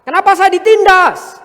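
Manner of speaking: whiny, rising mock complaint; grumbling complaint. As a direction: imitate someone grumbling at unfairness. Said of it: "bukan kamu ngomel".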